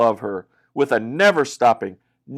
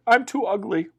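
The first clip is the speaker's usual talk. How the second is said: sad; 7 semitones higher, 3 dB quieter than usual. Acted. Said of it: "Leah said".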